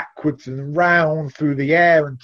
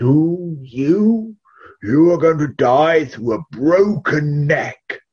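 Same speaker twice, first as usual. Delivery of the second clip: put-on old wise man; 4 semitones higher, 4 dB louder, slower than usual. A narrator's reading. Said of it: "the old man once again stroked his beard and he said".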